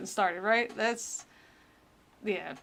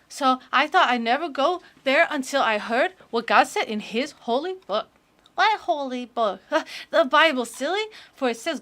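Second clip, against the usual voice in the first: put-on eager child reading her testimony, a touch louder; little kid voice; 3 semitones higher, 4 dB louder than usual. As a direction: gush like a proud little kid. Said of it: "the little kid voice that I'm doing".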